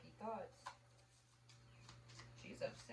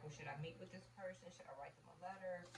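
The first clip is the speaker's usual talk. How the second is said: whispered client question; 6 dB quieter than usual. Retold or imitated. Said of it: "to be like".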